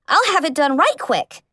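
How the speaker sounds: bright, eager burst of help. Acted. Apprentice eagerly answering her idol, excited. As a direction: jump at the chance to help her.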